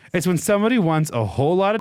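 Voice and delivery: quick, high southern explanation; southern accent. A narrator's reading. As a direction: jump right in, hammed-up southern voice. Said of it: "He jumped right in with the full explanation".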